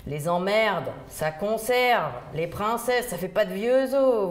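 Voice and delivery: « Les emmerdes, ça conserve » lent, gouailleur; léger accent parisien à la Arletty; gouaille parisienne. Retold or imitated. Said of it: "une gouaille à la Arletty". (vieille Parisienne donne son secret, gouailleuse)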